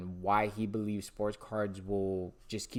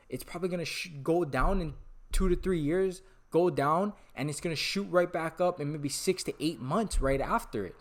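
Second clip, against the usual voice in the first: real excitement, higher-pitched and emphatic; super excited; 3 semitones higher than usual. Real, not acted. Vlogger carried away predicting a market rebound, super excited. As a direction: get carried away, pushing the key words higher. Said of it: "I'm getting super excited about this".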